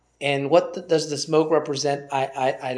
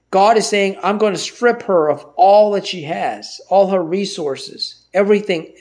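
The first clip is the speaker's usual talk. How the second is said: raised, emphatic prophetic declaration; forceful preaching; 3 semitones higher, 5 dB louder than usual. Acted. Preacher declaring God's judgment to the congregation, forceful. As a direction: preach it with rising-and-falling force.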